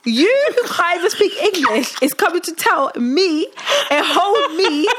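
half-laughing mock outrage. Retold indignation, laughing.

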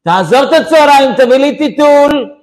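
high, loud imitated scolding; hammed-up shouting wife; wife's impatient yell. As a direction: cut him off with a mock screech. Wife cuts off husband's excuse.

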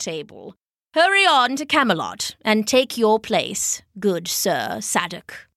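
lightly voiced old druid, solemn praise; Merlin. Old druid honouring a kneeling knight, solemnly approving. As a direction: give a measured, lightly acted wizard's blessing.

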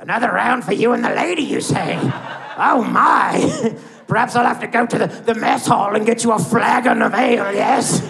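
high, hammed-up British accent; overdone British accent. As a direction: take the fake British way too far. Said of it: "a little too much".

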